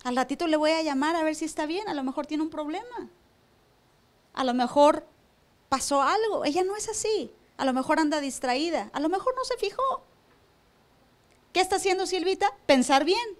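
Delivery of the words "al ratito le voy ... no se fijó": kindly inner thought. Retold or imitated. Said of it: "la otra opción es decir".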